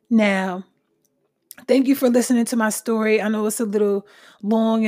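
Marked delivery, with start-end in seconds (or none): 0.1-0.6 속삭이듯 나우; whispered now. Real, not acted. Sudden whisper aside.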